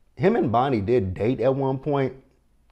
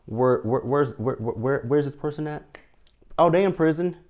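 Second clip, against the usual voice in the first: mock confusion; 5 semitones higher than usual. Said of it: "'cause I'm like".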